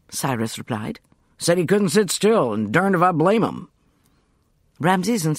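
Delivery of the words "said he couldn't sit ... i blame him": put-on American accent. A narrator's reading. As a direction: speak as an American gentleman. Cyrus voiced, American.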